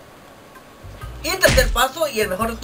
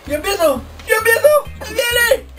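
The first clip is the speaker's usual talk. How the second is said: sudden loud high yell; excited shouting; 12 semitones higher, 6 dB louder than usual. Real, not acted. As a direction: shout it out in a rush. Burp coming up.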